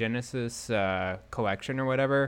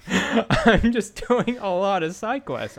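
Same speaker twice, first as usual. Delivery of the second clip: sheepish; 9 semitones higher, 5 dB louder, slower than usual. Real, not acted. Laughing admission, high and slow.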